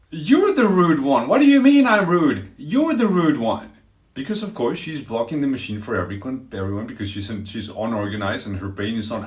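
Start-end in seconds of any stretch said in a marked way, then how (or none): 0.1-3.7 loud, high, heated comeback; confrontational. Retold or imitated. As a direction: confront her, voice raised and stretched. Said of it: "basically confronting her".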